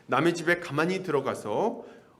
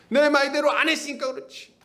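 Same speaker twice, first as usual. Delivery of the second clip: mock shaman excuse; 9 semitones higher, 3 dB louder than usual. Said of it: "그렇게 얘기합니다".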